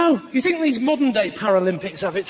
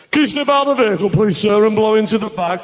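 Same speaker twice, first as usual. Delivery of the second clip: loud stern officer; policeman; 3 semitones lower, 6 dB louder than usual. Pretend. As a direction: order the driver out firmly. Policeman in advert monologue.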